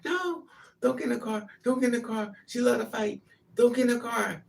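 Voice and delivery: high, urgent repeated protest; frantic retold pleading. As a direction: imitate a boyfriend jumping up and down. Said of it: "He's jumping up and down".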